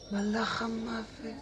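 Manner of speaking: high, slow, drawn-out wonder; awestruck. Acted. Patient recognising the Angel of Death, awestruck. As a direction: stretch out the dawning realisation. Awed repeat on realising.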